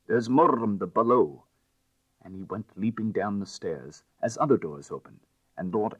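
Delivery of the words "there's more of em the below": urgent shout. A narrator's reading. Detective shouting while running off.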